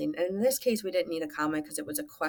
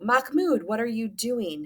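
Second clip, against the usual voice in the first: higher-pitched, understated father's cry; mild cry out; 3 semitones higher than usual. Acted. Teacher reads the father's line to students, mildly crying out. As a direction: call out in a mild mock yell. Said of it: "his father cried".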